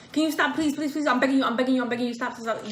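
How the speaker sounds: rushed, pleading mock panic; fast anxious begging. Mother reenacting her anxiety attack, fast pleading. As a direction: beg fast like you can't breathe. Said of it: "I talk just like that, like, fast".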